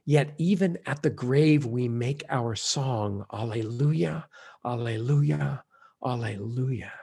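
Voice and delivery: a pastor recalling the funeral liturgy, hushed; liturgical words. Shown as a demonstration. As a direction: intone it like a funeral prayer. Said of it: "a phrase that always heartens me".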